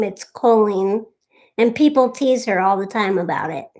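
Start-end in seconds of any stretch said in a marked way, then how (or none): 0.2-1.0 "Colleen" said slowly as coal-een; slow "Colleen" with a long oh first; long O pronunciation. Shown as a demonstration. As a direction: say "Colleen" starting like "coal", drawn out. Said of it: "say her name".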